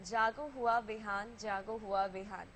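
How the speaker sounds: soft, measured verse recital; poem recitation. Acted. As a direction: recite the morning verse slowly and softly. Opens show reciting a verse. (धीमे, कोमल स्वर में कविता-पाठ)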